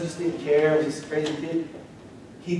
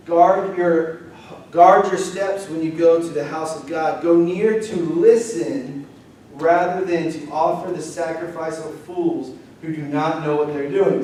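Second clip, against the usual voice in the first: louder, slow, declaiming reading; scripture reading; 4 dB louder than usual. Acted. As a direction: proclaim the verse to the congregation. Reads scripture aloud.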